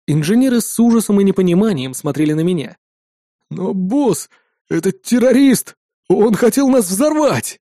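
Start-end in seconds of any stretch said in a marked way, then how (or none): 3.5-7.6 alarmed appeal. A narrator's reading. Frightened engineers appealing to boss.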